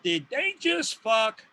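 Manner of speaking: drawn-out, slow question; slow incredulous question. Acted. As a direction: stretch each word out slowly. Voices asking yourself, drawn out.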